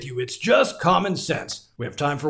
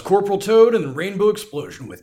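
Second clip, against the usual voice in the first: smooth late-night radio host; 3 semitones lower than usual. Acted. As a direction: ease in like a radio DJ. Boomer radio host intro.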